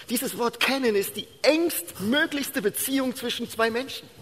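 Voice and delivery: hohe, drängende Predigerstimme; eindringliche Predigt. Real, not acted. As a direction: predige mit erhobener Stimme und Nachdruck. (inbrünstig verkündigen, hoch gespannt)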